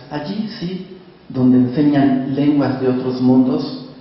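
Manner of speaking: calm, measured reading of a sad memory; poetry reading. Acted. Continues reading the poem.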